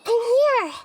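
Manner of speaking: calling out happily to announce herself; cheery greeting. Acted. Arriving to greet her friend with a cheerful call.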